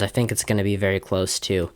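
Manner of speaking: breathless, words between gasps; running short of air mid-sentence; out of breath. Real, not acted. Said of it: "sorry, I was out of breath there".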